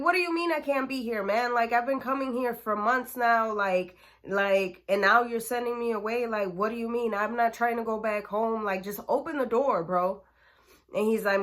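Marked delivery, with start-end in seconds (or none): 0.0-10.2 indignant protest. Retold or imitated. Indignant teen pushing to get in.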